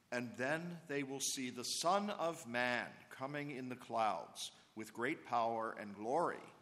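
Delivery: solemn scripture proclamation; Gospel reading. Acted. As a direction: proclaim it from the pulpit.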